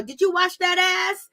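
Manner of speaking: lightly voiced scolding grandma; grandmother scolding. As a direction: play a nagging grandmother checking on bathing. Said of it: "your grandmother would say to you".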